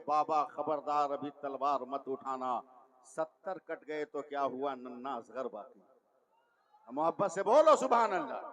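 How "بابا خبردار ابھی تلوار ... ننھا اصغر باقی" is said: lower, hushed, a touch of tears; tearful child's plea. Acted. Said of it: "روتے روتے کہا".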